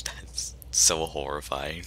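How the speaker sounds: slow frightened whisper; slow hushed dread. Real, not acted. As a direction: whisper it, creeped out. Nervous in dark forest.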